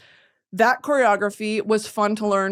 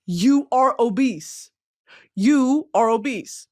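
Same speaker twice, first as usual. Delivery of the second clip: robotic game voice; much slower than usual. Retold or imitated. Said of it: "having it pop up and say".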